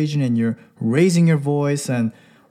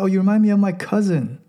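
put-on higher, quick girlish brush-off; a light girlish brush-off; mock dismissive woman; 5 semitones higher, faster than usual. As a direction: play the woman brushing him off. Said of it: "you hear that".

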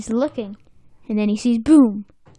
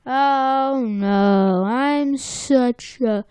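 mock self-pity; slower than usual. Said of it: "Plankton's just".

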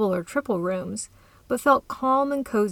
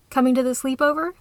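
offhanded; 4 semitones higher, 3 dB louder, faster than usual. Acted. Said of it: "Kate asked offhandedly".

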